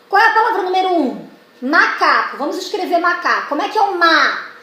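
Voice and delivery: teacher calling on pupils; classroom teacher voice. Shown as a demonstration. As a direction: quiz the children brightly. Teacher voicing classroom correction.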